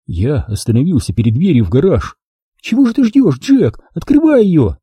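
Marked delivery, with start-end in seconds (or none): 2.6-4.8 put-on high, urgent girl's voice; impatient exclamation. A narrator's reading. Mia hurries Jack at the garage door, impatient. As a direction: urge him on, pitched way up. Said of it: "воскликнула она нетерпеливо".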